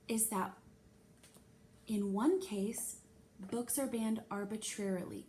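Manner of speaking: condescending tone. Acted. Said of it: "that you don't know anything tone".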